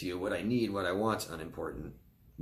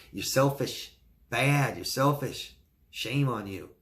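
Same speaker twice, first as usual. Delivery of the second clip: a hint of a scolding parent, higher; mock parental scolding; 3 semitones higher, 3 dB louder, slower than usual.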